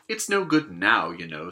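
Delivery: heavier on no, then sinking; mild sorrow, faun. Acted. The faun telling Lucy she is too late, mildly sorrowful. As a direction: begin sadly then let it sink. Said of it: "shaking its head at her very sorrowfully".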